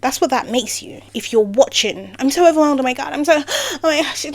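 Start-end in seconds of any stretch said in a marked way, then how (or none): 2.2-4.2 mock damsel. Mocking helpless damsel.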